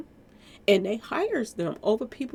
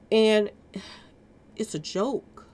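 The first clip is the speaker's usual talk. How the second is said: weary sigh; slower than usual. Real, not acted. Disgusted commentary on police.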